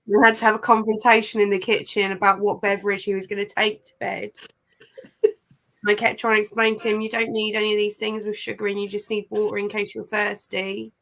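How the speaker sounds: flat, emotionless delivery with a sore throat; deadpan, no emotion whatsoever. Real, not acted. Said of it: "really deadpan voice with the accent".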